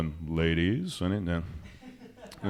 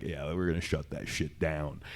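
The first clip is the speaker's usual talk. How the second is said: devilish whisper; 9 semitones lower, 12 dB quieter than usual. Retold or imitated. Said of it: "the devilish smile on her face".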